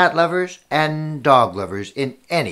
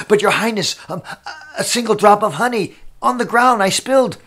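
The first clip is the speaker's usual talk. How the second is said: higher, hesitant stammer; lightly voiced worried servant, pitched up; hint of anxious servant; 6 semitones higher than usual. Servant confesses spilled honey to His Highness, higher and hesitant.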